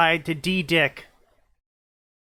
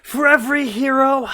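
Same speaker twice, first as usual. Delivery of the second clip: trailer voice; 8 semitones higher, 7 dB louder than usual. Acted. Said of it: "dramatic trailer opening".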